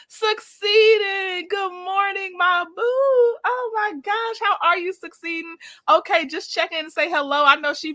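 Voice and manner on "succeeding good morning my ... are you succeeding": excited greeting. Real, not acted. Thrilled to see a regular viewer.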